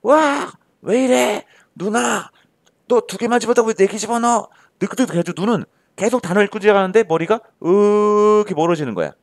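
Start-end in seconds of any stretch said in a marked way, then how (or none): 0.0-4.5 high-pitched, protesting voice of an overloaded brain; overwhelmed brain. Acted. Brain complaining to the eyes about four words at once, overwhelmed. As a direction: cry out in a much higher voice, acting overwhelmed. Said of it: "머리가 이러는 거야".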